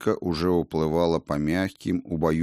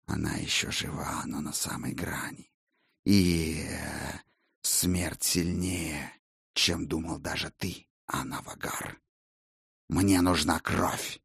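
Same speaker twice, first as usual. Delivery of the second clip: soft, low menacing vampire; 3 semitones lower, 7 dB quieter than usual. Acted. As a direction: speak as a cold, scornful vampire. Vampire voiced by narrator.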